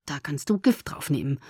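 low, soft grumble; quiet, sullen murmur; muttered. A narrator's reading. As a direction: mutter it under your breath. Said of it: "murmelte ich".

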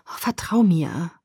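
slow, gentle and coaxing; tender plea for her trust; soft pleading. Acted. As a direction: coax her softly to trust him. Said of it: "bat er leise mit unwiderstehlich sanfter Stimme".

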